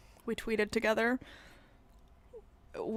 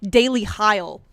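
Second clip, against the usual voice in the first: mock plea; 9 dB louder than usual. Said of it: "I actually have to say".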